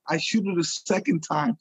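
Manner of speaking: ordinary talk, nothing marked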